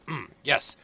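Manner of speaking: put-on loud, pompous old advisor. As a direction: puff up like a self-important elder. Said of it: "He's an older guy".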